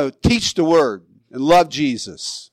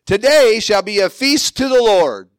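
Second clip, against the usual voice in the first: higher, hammed-up public announcement; mock-official festive declaration; acted-out proclamation; 5 semitones higher, 4 dB louder than usual. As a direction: proclaim it to a crowd, pitched up. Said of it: "made a proclamation and said".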